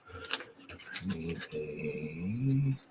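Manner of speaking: words stretched through a yawn. Real, not acted. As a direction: yawn while you talk. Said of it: "No yawning?".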